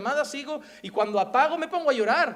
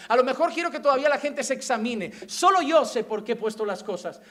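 God declaring His sovereignty; 5 dB louder than usual. Acted. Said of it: "Él es el que voy a Él y me dice".

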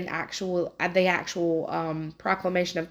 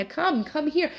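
much higher, urgent calling to townsfolk; excited proclaiming; 8 semitones higher than usual. Retold or imitated. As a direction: call everyone over to see, voice pitched high. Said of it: "she is just proclaiming Jesus to the whole town".

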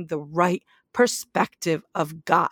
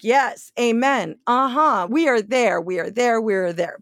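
mock eager congregation. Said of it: "We're like".

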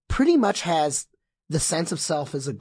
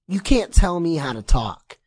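mocking quote; 9 dB louder than usual. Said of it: "people saying something like".

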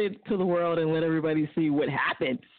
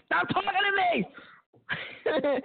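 retold outburst; 11 semitones higher, much slower than usual. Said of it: "and he says".

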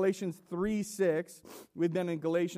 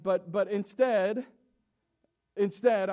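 louder, slower, drawn-out instead; emphatic instead; 6 dB louder than usual. Real, not acted. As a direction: lean hard into instead, slowly. Preacher turns to the better way.

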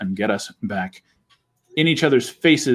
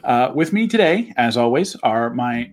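show host intro; 3 semitones higher than usual. Acted. Host opens the morning show.

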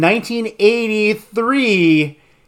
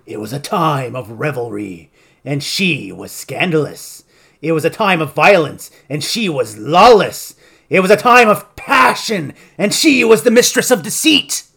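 lightly imitated movie trailer narrator; trailer voiceover. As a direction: read it like a trailer announcer, half-hearted. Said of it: "trailer voiceover here".

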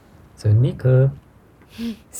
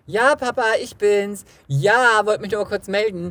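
high, giddy phone call to dad; daughter on phone; 9 semitones higher than usual. Retold or imitated. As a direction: chatter to dad, distracted and giddy. Imitated phone call to father.

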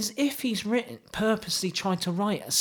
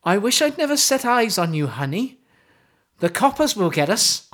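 Welsh accent; 5 semitones higher, 3 dB louder than usual. Shown as a demonstration. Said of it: "Are you gonna do it with the accent?".

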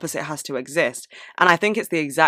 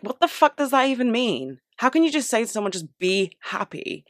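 higher-pitched incredulous retort; exasperated disbelief; 6 semitones higher than usual. Retold or imitated. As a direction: retell it in mild, high-pitched exasperation. Retelling her exasperated reaction to advice.

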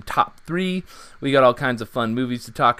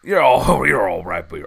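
fake Southern accent; 3 semitones lower, 5 dB louder than usual. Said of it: "This is not our real accents".

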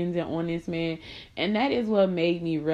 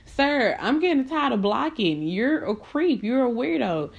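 mock telling off; 4 semitones higher than usual. Telling off a creepy man.

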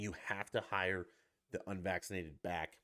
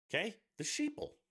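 mocking sneer; 14 semitones higher, 3 dB louder than usual. Mocking parody continues.

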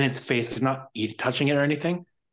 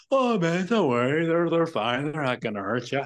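mock easygoing dog owner, pitch easing down; airy, higher "no worries" imitation; breezy reassurance; 4 semitones higher than usual. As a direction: imitate a carefree guy brushing it off, starting high. Carefree dog owner brushing him off.

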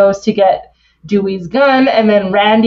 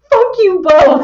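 a shouted brush-off, hammed up; mock yell; 11 semitones higher than usual. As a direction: fling it at them both. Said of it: "and she's like".

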